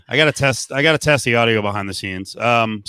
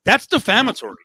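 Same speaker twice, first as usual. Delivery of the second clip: outraged; 10 semitones higher than usual. Real, not acted. Outraged host.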